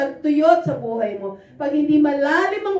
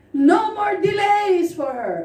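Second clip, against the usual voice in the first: commanding prayer shout; 3 semitones higher, slower than usual. Retold or imitated.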